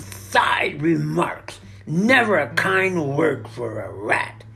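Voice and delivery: loud, indignant complaint; scornful grumbling. A narrator's reading. Rat moans about thankless work, scornful grumbling. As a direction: grumble loudly with injured scorn.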